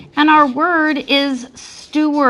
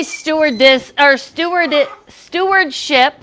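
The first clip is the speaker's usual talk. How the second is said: high squeaky voice, a touch louder; 4 semitones higher, 3 dB louder than usual. Shown as a demonstration. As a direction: squeak it out like a toy. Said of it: "say stewardship in a squeaky voice".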